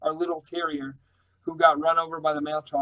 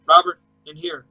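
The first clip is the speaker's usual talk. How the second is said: urgent call; 10 dB louder than usual. A narrator's reading.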